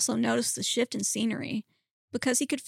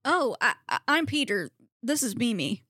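hesitant, polite introduction; awkwardly polite. Acted. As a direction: attempt politeness despite the weirdness. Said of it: "Peter said in an attempt to be polite".

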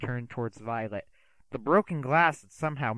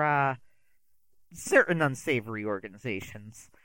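theatrical magician; 3 dB louder than usual. Acted. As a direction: sweep the words out like a stage magician. Magician introduces himself.

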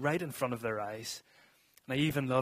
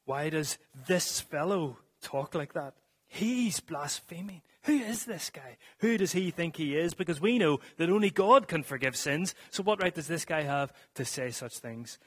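mock indignation, building higher and louder; ranting scribes; 4 semitones higher, 4 dB louder than usual. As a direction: act out scandalised doubters, pitch climbing. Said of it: "internal rantings of the scribes".

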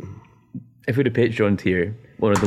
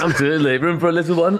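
excited; 8 semitones higher, 3 dB louder than usual. Pretend. Playing the eager pig-eater.

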